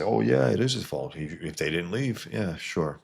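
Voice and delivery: mock a know-it-all who blames the kid; mocking jerk. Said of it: "some rat bastard would say".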